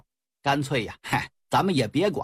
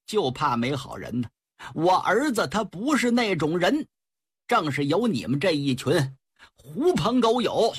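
put-on furious old man. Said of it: "老头可气坏了".

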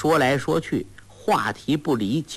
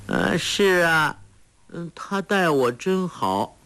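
put-on higher, slow, childlike girl voice; simple-minded girl; 7 semitones higher, slower than usual. Sha Gu answering simply.

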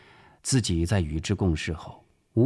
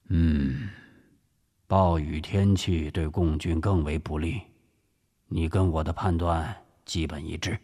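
a hint of a senior commander, low-pitched; lightly voiced grave director; 4 semitones lower than usual. Director assessing the threat with his officer, gravely. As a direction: weigh the situation soberly in a lower voice.

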